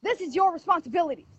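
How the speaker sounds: high-pitched, emphatic reproach; heated insistence. Real, not acted. Mother holding officials responsible for the children, heated insistence. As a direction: press each point with urgent indignation.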